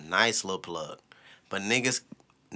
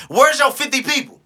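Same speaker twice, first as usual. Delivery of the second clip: high, loud mocking comeback; mocking retort; 10 dB louder than usual. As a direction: fire it back with scorn. Retorting to would-be managers.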